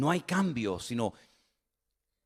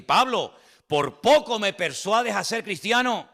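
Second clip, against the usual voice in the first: raised, slow, wry question; half-mocking king; 5 semitones higher, 4 dB louder, slower than usual. Agripa answering Paul, wry. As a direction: let the king sound half amused.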